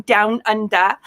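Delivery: hammed-up Australian accent; bad Australian accent. Shown as a demonstration. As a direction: attempt a clumsy Aussie accent.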